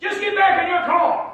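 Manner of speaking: angry, loud, drawn-out barked yell. Retelling an angry man in line yelling back: imitating someone yelling. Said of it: "and he yelled at me".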